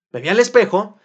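usual speaking voice

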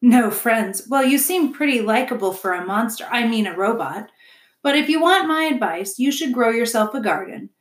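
lightly voiced friendly beaver; a hint of a well-meaning builder; advising beaver. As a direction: offer neighbourly advice, lively pitch. Mister Beaver advises robot.

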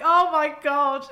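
loud, slow, high exclamation; re-enacted big news reaction; retold amazement. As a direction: draw it out in overjoyed disbelief. Retelling her joy at the news.

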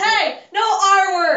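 scolding shout. Real, not acted. Youth scolding a friend for the R word, scolding shout. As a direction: call it out sharply, stretching the words.

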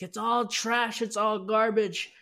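mock angry yell; angry grandma. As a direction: bark it like a scolding grandmother. Grandma sweeping things into trash.

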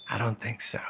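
soft whisper. Pretend. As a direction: whisper the answer. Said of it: "Should we whisper the whole episode?".

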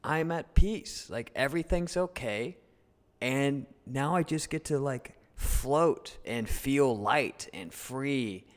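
slow, serene, drawn-out; at peace. Retold or imitated. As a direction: let it float out, blissfully calm. Calm once parachute opens.

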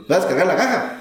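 put-on toned-down Oaxacan accent, with a laugh. Retelling the worker's question, toned-down Oaxacan accent with a laugh. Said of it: "a lo mejor no se muy fuerte".

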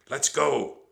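loud, high call; insistent high shout; urgent cry. A narrator's reading. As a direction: yell to hurry him away. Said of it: "cried Annie".

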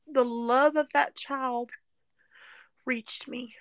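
real, choked-up whisper, slow; breath-only words through real tears; tearful whisper. Real, not acted. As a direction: hold back tears and let it fall to a whisper. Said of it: "I'm not gonna edit out the tears".

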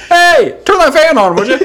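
high, laughing, fake-casual ask; laughing mock request. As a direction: ask innocently while cracking up. Covering up his fart.

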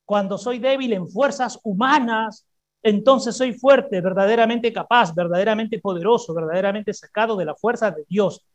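calm repeat of the verse; repeated proclamation. Shown as a demonstration. Preacher repeats the verse for the congregation, steady. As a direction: say it again, steady and clear.

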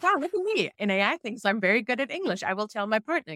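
high, delighted self-quote; excited. Retold or imitated. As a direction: gush about your own success. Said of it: "So I was like".

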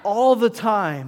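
slow, loud shout of the reply; shouted response. Shown as a demonstration. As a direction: belt it out with the congregation. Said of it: "Let's try it again".

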